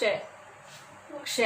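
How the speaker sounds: क्ष as क plus श blended, drawn out and breathy; slow joined ksh. Shown as a demonstration. Teacher joins two consonants for pupils, slowly. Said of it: "कै और श".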